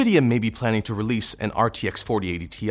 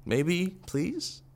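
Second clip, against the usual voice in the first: pleading; 3 semitones higher, 6 dB quieter than usual. Acted. Begging Nvidia then giving up.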